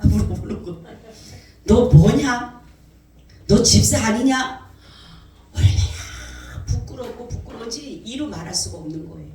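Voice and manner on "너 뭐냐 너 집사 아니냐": loud, stern rebuke from above; God scolding a deaconess, loud and stern; booming voice of God. Retold or imitated. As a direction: thunder the question down at her. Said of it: "주님의 말씀이 들리는 거예요".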